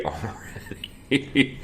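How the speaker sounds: slow, hushed mock-awed whisper. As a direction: breathe it out in mock wonder. Echoing co-host in mock awe.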